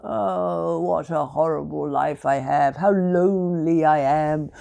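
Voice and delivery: lightly voiced moaning tinker; a hint of a self-pitying moan; moaning Tommy. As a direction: groan it out, sorry for himself. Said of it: "he moaned and groaned".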